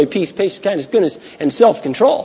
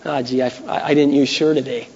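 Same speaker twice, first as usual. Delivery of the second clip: mild sheepish mumble, softer; a touch of embarrassed, softer reply; 3 semitones lower, 4 dB quieter than usual. Retold or imitated.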